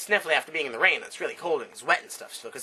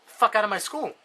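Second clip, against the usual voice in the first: a put-on principal telling him to get out; comic blunt expulsion; mock angry principal; 4 semitones higher than usual. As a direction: principal swearing at a student. Principal swears at Billy.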